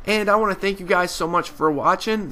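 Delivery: stuffy, nasal sick voice. Real, not acted. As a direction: talk through a blocked nose. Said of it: "Sorry for my nasally voice".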